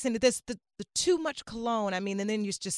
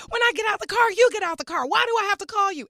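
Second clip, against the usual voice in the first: higher-pitched parental scolding; mock yell, pitched up; retold yelling; 8 semitones higher than usual. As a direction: re-enact nagging your kid to get moving. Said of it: "yelling at C J".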